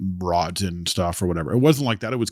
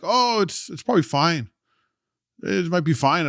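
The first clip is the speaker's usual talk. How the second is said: high, airy imitation of teammates brushing off the injury; sing-song mock reassurance, higher; mock dismissive teammates; 9 semitones higher than usual. Teammates shrugging off his injury, mock high reassuring voice.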